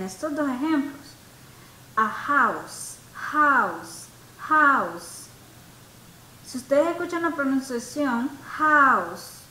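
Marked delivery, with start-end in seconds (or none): 2.0-3.0 HOUSE with a strong breathy h, like Spanish J; h aspirada marcada. Shown as a demonstration. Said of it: "es con una J". 3.1-5.3 HOUSE repeated with an audible j-like h; h aspirada marcada. Shown as a demonstration. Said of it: "es con una J". 8.6-9.4 HOUSE with a strong j-like h, louder; h como jota. Shown as a demonstration. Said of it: "es con una J".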